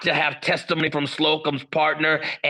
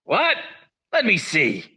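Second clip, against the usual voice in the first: surprised; 3 semitones higher than usual. Acted. Captain hears pictures differ.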